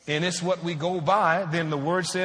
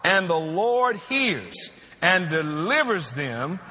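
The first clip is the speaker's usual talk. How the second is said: scripture reading. Acted. Reads the scripture once more.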